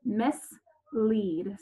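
"mislead" split clearly into mis and lead; syllable demo. Shown as a demonstration. Teacher showing fourth graders where the syllable splits. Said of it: "so it'd be".

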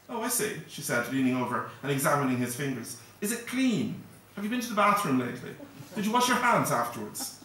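quizzes him like a fussy aunt; fussy lady. Acted. Maud quizzes the boy fussily.

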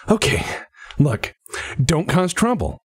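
acted fed-up plea building to a high finish; exasperated plea. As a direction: plead with troublesome subordinates, pitch climbing. Captain's acted final plea to subordinates.

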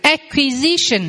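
slow Acquisition, syllable by syllable; slow model word. Shown as a demonstration. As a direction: drill Acquisition slowly. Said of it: "Quý vị đọc vào phần từ vựng".

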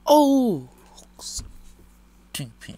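whisper. Real, not acted. Sudden death in game.

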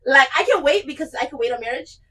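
hammed-up tearful excitement; mock emotional. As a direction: gush as if overcome with joy. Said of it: "sorry, I'm getting emotional".

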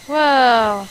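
loud startled exclamation; startled whoa. Real, not acted. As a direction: jump at a sudden sight. Sees ghostly figure appear.

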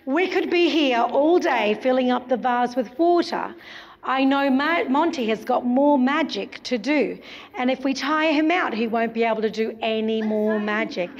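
ordinary talk

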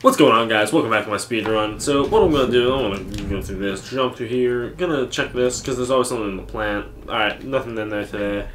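upbeat YouTube speedrun host voice; speedrunner. Pretend. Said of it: "Speedrun commentary?".

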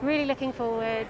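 muffled behind a mask; speaking through a face mask. Real, not acted. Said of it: "get used to my voice being quite muffled behind my mask".

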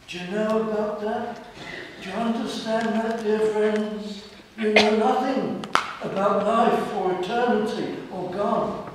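urgent appeal. Real, not acted. Preacher urgently appeals to listeners.

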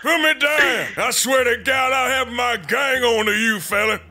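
angry yelling. Pretend. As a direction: demand to be put down, furious. Tied up, threatening captors.

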